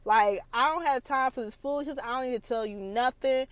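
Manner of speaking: high, mock-defiant, letter by letter; lightly hammed sassy comeback; a hint of a defiant young wife; sassy attitude. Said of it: "That was me".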